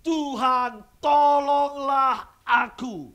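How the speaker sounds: loud, high, slow tearful begging; hammed-up sobbing plea; crying plea. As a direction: cry out to God for help.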